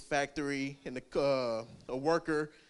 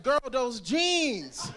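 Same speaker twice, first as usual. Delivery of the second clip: slow flirty repeat; 7 semitones higher, 3 dB louder, much slower than usual. Retold or imitated. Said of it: "I'm like".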